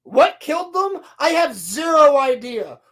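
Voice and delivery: loud exasperated rant. Real, not acted. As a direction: vent in disbelief.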